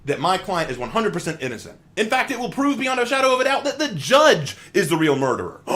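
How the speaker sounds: loud, high courtroom lawyer voice; honeyed southern lawyer drawl. Acted. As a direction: grandstand to the jury. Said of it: "Let's say that I'm a lawyer".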